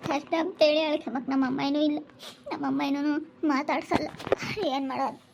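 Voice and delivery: soft, tearful lament with a catch in the voice; crying to herself. Acted. A wife alone in the evening, quietly crying over her life. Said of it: "ಯಾಕೆ ಅಳ್ತಾ ಇದೀಯ?".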